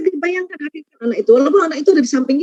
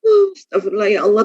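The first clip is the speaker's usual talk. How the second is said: sighing prayer; 5 semitones lower than usual. Shown as a demonstration. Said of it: "lakukan manajemen emosi dengan".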